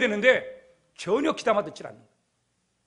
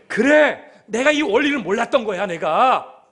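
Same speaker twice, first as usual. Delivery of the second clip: emphatic admission; 3 semitones higher, 8 dB louder, slower than usual. Acted. Newton owning up to his ignorance, loud and emphatic.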